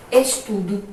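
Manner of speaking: "Estudo" ending in an "oo" sound; final O as U. Shown as a demonstration. Teacher reading the example to pupils, "Estudo" ending in U. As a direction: say "Estudo" with its last O as U. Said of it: "com som de U".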